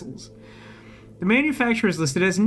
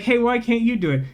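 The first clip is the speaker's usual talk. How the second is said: blunt subtext read; 5 semitones higher than usual. Retold or imitated. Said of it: "can I read the subtext out".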